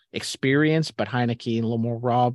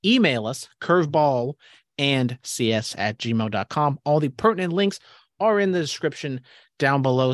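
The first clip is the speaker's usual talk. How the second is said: promo read; 2 semitones higher than usual. Acted. Podcast plug read.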